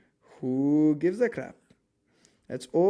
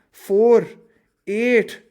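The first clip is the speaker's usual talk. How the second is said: voice cracking; 7 semitones higher, 11 dB louder, much slower than usual. Real, not acted. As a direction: pitch rising until voice cracks. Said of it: "that's a voice crack".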